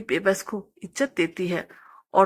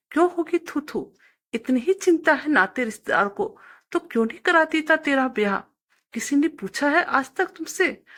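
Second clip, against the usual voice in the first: distraught scolding; 3 semitones higher than usual. Acted. Mother scolds son, then weeps.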